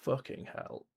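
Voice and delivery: breathy whispered swear under the breath; whispered fucking hell after the goal; whispered curse. Real, not acted. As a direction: hiss it out in dismay. Conceding a goal.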